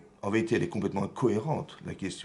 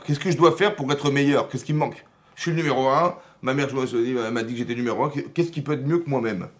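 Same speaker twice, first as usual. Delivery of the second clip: loud, raised-pitch self-justification; indignant protest; 3 semitones higher, 4 dB louder than usual. Acted. Cain the firstborn objecting to God, loud and indignant. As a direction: protest like the favoured firstborn challenged.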